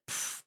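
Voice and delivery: short puffed "pff" of igniting; sudden burst of air; imitated whoosh of flame. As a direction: puff out air like something catching fire. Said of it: "it just goes like".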